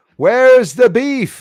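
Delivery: put-on very high, very loud, shrill sweet old lady voice. Looking for a video to show, joking: imitating a sweet old lady. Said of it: "You sound like that sweet old lady".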